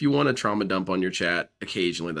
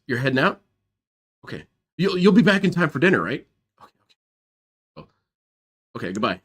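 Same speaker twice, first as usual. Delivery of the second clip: Panda Lee voice; 3 semitones higher, faster than usual. Retold or imitated. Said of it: "last time we ever heard Panda Lee's voice".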